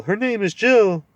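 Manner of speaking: high, loud owlish hoot of a voice. Acted. Owl hooting up at the deaf dwarf.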